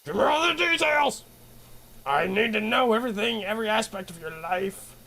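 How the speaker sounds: high, excited demand for gossip; eager demand. Real, not acted. Streamer begging a friend for gossip, excited high demand. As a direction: demand every juicy detail.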